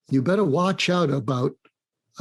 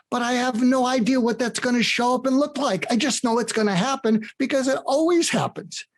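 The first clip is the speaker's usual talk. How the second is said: retelling a friend's giddy talk, pitched higher; rising higher and higher with excited joy; giddy excitement; 7 semitones higher than usual. Retold or imitated. CEO friend tells Mark why failure thrills him, giddy and excited. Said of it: "I'm giddy with excitement".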